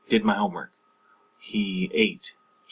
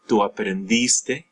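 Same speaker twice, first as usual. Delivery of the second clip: aprendiste stressed on DIS; 4 dB louder than usual. Shown as a demonstration. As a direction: lean on the i in aprendiste. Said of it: "that A or the I".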